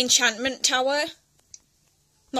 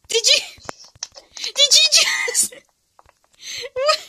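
higher, breathless whisper dissolving into a laugh; shocked whisper; 13 semitones higher, 3 dB louder, slower than usual. Real, not acted. To a friend who just did something shocking, stunned whisper. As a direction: whisper it in disbelief.

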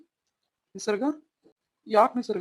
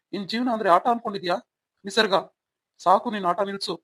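louder, stern scolding; angry; 5 dB louder than usual. Acted. Husband scolding wife for joking, stern anger. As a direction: tell her off firmly.

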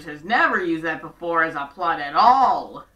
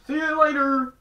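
higher, louder quick goodbye; hasty brush-off; 8 semitones higher, 4 dB louder than usual. Retold or imitated. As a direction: bail out of the talk fast. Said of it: "He's like".

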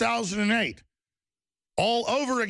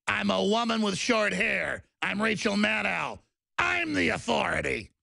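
higher sing-song mock of a smug official; a hint of a smug TV anchor, pitched up; 4 semitones higher than usual. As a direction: parody a cheerful authority calming the public. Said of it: "It's all being announced".

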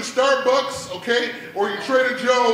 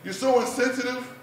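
mildly raised, scolding rant; pissed-off dad; 3 semitones higher than usual. Acted. Dad scolding daughter next day, hurt and annoyed. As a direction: scold her in a higher voice. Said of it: "now I'm living pissed off".

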